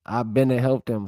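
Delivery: Gullah Geechee creole sentences, lightly voiced; reading Gullah examples. Shown as a demonstration. Vlogger reads Gullah grammar examples to viewers, lightly accented. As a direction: sound out the Gullah verb forms, a hint of Gullah accent. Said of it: "See, we say finna".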